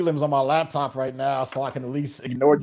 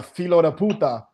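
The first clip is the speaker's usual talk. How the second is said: Portuguese curse; 3 semitones higher than usual. Shown as a demonstration. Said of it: "in Portuguese they say".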